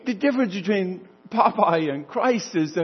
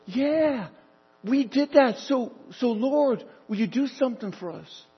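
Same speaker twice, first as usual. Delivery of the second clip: excited; 5 semitones higher than usual. Acted. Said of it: "you can see their excitement".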